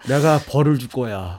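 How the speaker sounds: low, quiet menacing movie line; Kim Rae-won impression. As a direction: murmur the threat low and cold. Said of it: "김래원 씨 대사네요".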